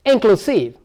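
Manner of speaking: "inclusive" said carefully with a final fall; "inclusive" as a teacher's example word; stressed-syllable demo. Shown as a demonstration. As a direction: show learners the stress in "inclusive". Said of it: "The stress lies on here now".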